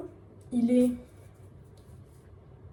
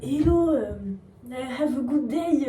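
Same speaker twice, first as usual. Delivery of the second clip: French-accented English. Shown as a demonstration. Vlogger mocking her own lost English, French accent. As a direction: show off a French accent in English, pitched up at the start. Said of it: "un accent français".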